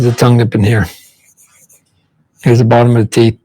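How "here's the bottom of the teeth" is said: whisper. Real, not acted. Whispered aside while drawing.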